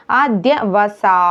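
ആദ്യവസാ slowly, ending on a held "saa"; long vowel demo. Shown as a demonstration. Teacher showing where the length goes, drawn-out ആദ്യവസാ. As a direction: draw out the last syllable of ആദ്യവസാ. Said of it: "അവിടെയാണ് ദീർഘം വേണ്ടത്".

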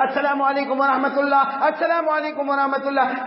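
high, held-pitch closing salaam; chant-like high salaam of a prayer leader; imitated imam. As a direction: mimic an imam ending the prayer. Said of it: "امام صاحب بیچارہ".

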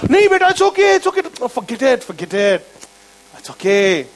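pat her on the head and wave it off; soothing brush-off. Retold or imitated. Soothing imitation of Jesus dismissing sin.

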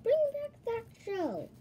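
loud, high-pitched villain yell; shouted command at escaping foes; angry yell. A narrator's reading. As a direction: yell the demand furiously. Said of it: "he yelled".

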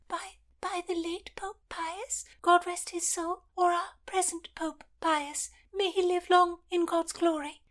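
put-on high, breathless whispered shriek of a frightened old lady; hammed-up high panicked old woman. Lady Paget voice held.

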